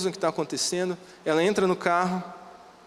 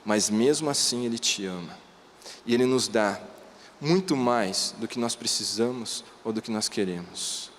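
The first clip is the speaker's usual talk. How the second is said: tender fatherly voice; 3 semitones lower than usual. Retold or imitated. Father tenderly explaining grace.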